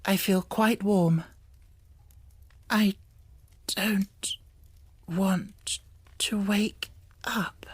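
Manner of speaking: drowsy, half-asleep murmur. A narrator's reading. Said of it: "she murmured".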